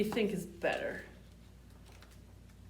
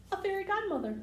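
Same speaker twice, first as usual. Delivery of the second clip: wonder; 10 semitones higher, faster than usual. Acted. Magic moment in story.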